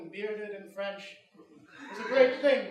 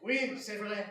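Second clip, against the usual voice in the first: put-on French accent; slower than usual. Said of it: "when you actually use a French accent".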